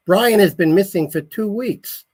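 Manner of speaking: high, slow worried plea; holding back tears; mild tearful worry; tearful mother. A narrator's reading. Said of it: "tears welled up in her eyes".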